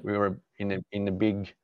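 hesitant, searching for the English word; groping for a word in a second language; translating in head. Real, not acted. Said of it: "I don't know the word in English".

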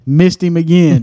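laughing. Real, not acted. Laughing over the repeated misses.

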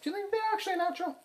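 incredulous. Real, not acted. Incredulous question.

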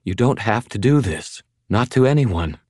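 high, pleading woman's voice; thready. Acted. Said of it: "her voice thready".

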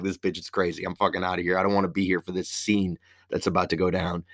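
low, soft retold grumble; fed-up aside. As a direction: drop the voice for a quick exit line. Friend's fed-up aside before leaving.

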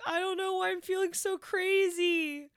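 high, loud, emotionally overwhelmed cry; overwhelmed outburst. Retold or imitated. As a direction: blurt it out like your feelings are spilling over. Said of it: "you're like".

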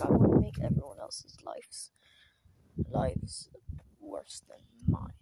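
sneering breathy mock of mean kids; whispered mean-kid impression. Mocking mean Gacha Life kids.

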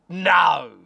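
loud retold "No"; a blunt refusal, half shouted; mock shouted no. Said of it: "And I was like".

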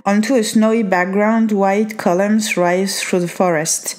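reading English aloud in a strong French accent, some words slowed. Real, not acted. Reading the English card text to the viewer, French accent. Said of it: "je te lis avec mon accent, euh, bien pourri".

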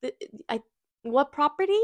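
a hint of a bright, overly polite email voice; sweet polite email voice. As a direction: play up her own polite email tone. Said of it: "I was like".

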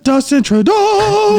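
very high, long-drawn Canadian caricature; mock Canadian accent. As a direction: sing out the name in a silly Canadian accent. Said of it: "That's their dialect in Canada".

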